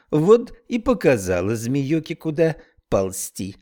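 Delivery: drawling Irish brogue; Irish accent. Acted. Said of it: "с сильным ирландским акцентом".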